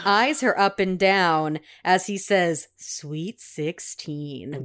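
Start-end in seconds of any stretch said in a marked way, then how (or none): 2.8-4.6 slow low ogre growl. Retold or imitated. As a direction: gross creep voice, dragged out. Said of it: "an ogre voice".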